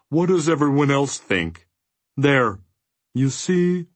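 high, peevish complaint. A narrator's reading. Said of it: "he said peevishly".

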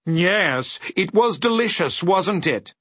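high-pitched, delighted character voice; pleased dodecahedron. A narrator's reading. Dodecahedron praising the stew, pleased. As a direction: agree happily, pitched well up. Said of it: "agreed the pleased dodecahedron".

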